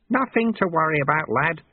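easy, unhurried reassurance; calm. A narrator's reading. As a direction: soothe the lad lightly. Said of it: "said Lutze calmly now".

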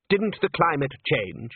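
a snide jab, lightly voiced; nastily. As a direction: needle him with a sneer. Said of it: "said Salzella nastily".

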